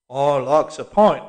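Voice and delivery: put-on slow, insistent old cockney; stubborn old man. A narrator's reading. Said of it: "persisted the old man".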